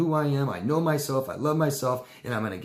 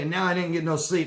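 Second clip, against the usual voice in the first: higher, louder put-upon complaining; whiny victim; 6 semitones higher, 3 dB louder than usual. Acted. Victim griping to the hero, whiny and put-upon. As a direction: whine like the wronged one. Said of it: "the victim says to the hero".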